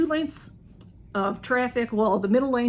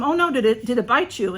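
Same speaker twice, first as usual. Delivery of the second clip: worried question; 3 semitones higher, 5 dB louder than usual. Retold or imitated. Concerned bystander asks.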